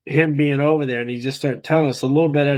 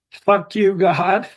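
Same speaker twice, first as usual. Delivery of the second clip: retold curse; 6 semitones higher, 3 dB louder, much slower than usual. Son quotes father cursing God.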